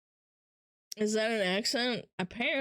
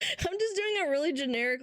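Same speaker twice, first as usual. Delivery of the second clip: laughing; 4 semitones higher than usual. Real, not acted. Laughing at own accent impression.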